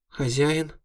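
high, surprised imp voice; a tiny demon spotting her master; squeaky imp. A narrator's reading. Imp noticing her master on the floor, high squeak.

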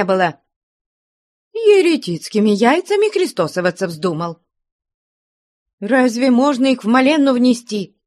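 shrill nagging grandma, high and scolding; angry shout. A narrator's reading. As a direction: scold her husband in a high furious cry. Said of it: "сердито вскрикнула на мужа".

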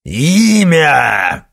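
roared name, high and loud. A narrator's reading. Werewolf roars at the witch for a name. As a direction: bellow the demand. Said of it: "взревел Никита".

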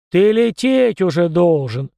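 booming command; thundering. Acted. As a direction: roar the order at him. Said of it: "громыхнул князь".

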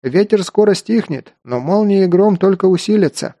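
high shout over the storm. Acted. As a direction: keep yelling over the wind. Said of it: "тоже закричал Бертом".

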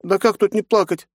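put-on high tearful girl's voice; a little girl fighting tears; sobbing girl. A narrator's reading. Nastya sobs to her aunt. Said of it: "всхлипнула девчонка".

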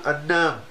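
النام said with an N in place of the L; النام, lisping speaker's N for L; L turned into N. Shown as a demonstration. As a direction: swap the lam for a nun in النام. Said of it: "ينطق اللام نونا".

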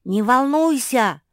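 slow, loud, high chiming-in; singsong reassurance. A narrator's reading. Мафи echoing Жози to Марсия, singsong reassurance. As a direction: draw it out as reassurance. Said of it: "подпевала ей Мафи".

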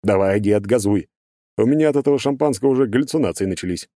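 smug, lecturing character voice. Acted. Burbulis urges old man.

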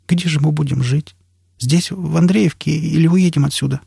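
high, pleading woman's questions; worried woman's lighter voice; anxious woman. A narrator's reading. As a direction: ask uncertainly, voice lifted high. Настя с тревогой спрашивает.

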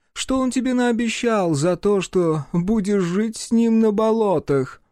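high, mocking reproachful creature voice; reproachful whale. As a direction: scold in a high sing-song whale voice. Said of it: "осуждающе шлёпать плавниками и приговаривать".

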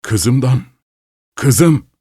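moaning as if choking; choked, groaning cry. Acted. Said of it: "diye inledi ihtiyar boğulurcasına".

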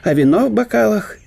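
лёгкий голос весёлого гостя; говорить бодро и со смешком; добродушный немецкий профессор. Acted. Штелин пересказывает дворцовую историю. (гость бодро утешает больного хозяина)

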